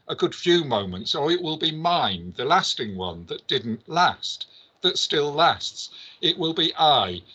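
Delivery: lightly performed prose monologue, driving on phrase by phrase; dramatic literary reading. Acted. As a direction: read out the novel passage with rhythmic, insistent phrases. Reads Beckett passage aloud dramatically.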